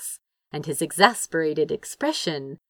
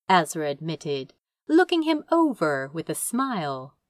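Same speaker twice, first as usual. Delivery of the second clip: ordinary delivery, nothing marked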